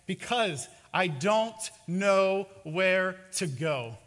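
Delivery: slow, loud, exasperated admission; each word dragged out with weight; helpless shrug. Acted. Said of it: "shrugs his shoulders as if to say".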